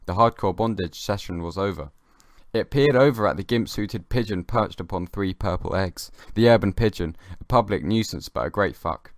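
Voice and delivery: a lightly solemn recital of his own short piece; deadpan reading. Acted. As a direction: read it out like a serious poem. Reads his written piece.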